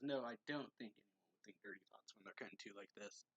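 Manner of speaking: lightly voiced flustered denial in a changed voice; hint of a defensive character; character's retort. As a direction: brush it off in another voice. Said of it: "Or says".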